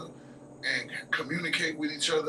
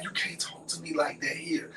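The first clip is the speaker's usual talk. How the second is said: imitated whispery warning; hushed scolding; 3 semitones higher, 4 dB quieter than usual. Friend warns not in front of people, hushed. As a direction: warn her under your breath. Friend hushing her in public.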